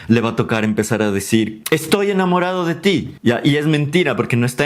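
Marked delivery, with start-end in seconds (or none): 1.7-3.1 higher-pitched declaration of love; acted love confession. Acted love confession in improvised scene.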